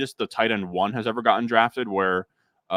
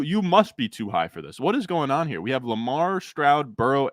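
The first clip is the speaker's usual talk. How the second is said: ordinary talk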